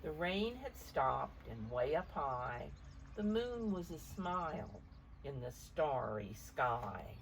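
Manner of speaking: gentle read-aloud picture book voice; story narration. A narrator's reading. Parent reading the storm page aloud to a child, gently.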